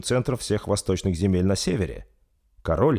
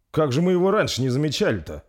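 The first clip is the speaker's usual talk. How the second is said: high, baffled wondering; puzzled; 8 semitones higher than usual. Acted. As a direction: sound truly puzzled. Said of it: "недоумевал Арнотом".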